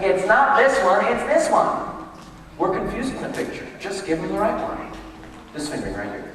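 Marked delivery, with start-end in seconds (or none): 0.0-2.1 critical correction. Shown as a demonstration. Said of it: "instead of saying".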